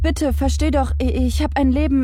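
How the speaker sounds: high, stammering, begging for life; a man about to be killed; terrified pleading. Acted. Merchant begs again.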